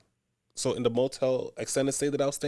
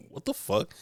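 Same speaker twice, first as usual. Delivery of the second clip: higher, stunned disbelief; incredulous; 9 semitones higher, 7 dB quieter than usual. Retold or imitated. Finding her AirPods gone, stunned and high. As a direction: say it like you can't believe it. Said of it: "I'm like".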